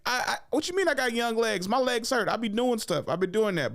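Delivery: mock whiny kid. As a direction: whine like a tired little kid. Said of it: "I'm like".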